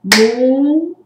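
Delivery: "Mundo" split loudly into mun, pause, do; two firm, separate beats on "Mundo"; syllable by syllable. Shown as a demonstration. Teacher emitting the sound twice, syllable by syllable. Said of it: "emito o som duas vezes".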